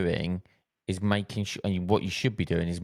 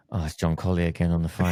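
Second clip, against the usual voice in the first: weary groan; 3 semitones lower, faster than usual. Retold or imitated. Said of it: "I can imagine them going".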